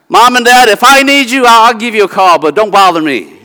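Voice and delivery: a hint of a dismissive grown child; grown kid. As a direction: brush off your parents lightly. Voicing an independent grown child.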